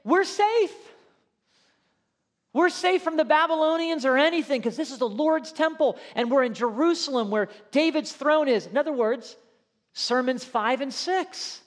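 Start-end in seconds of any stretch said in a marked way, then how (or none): 0.0-8.7 mimicking the complacent people. Preacher voicing people who think the temple protects them. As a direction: play a smug worshipper sure they're safe. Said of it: "They're saying".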